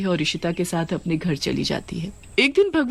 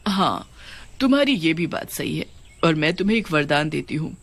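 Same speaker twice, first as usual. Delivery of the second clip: witch queen voice; 2 semitones lower than usual. Acted. Witch queen grants boon. (नीची आवाज़ में आदेश देती चुड़ैल रानी)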